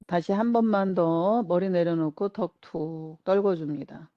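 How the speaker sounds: unhurried relaxation-guide voice, pausing between instructions; guided relaxation. Acted. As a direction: lead them gently through letting go. Leads a relaxation exercise. (차분한 이완 명상 안내)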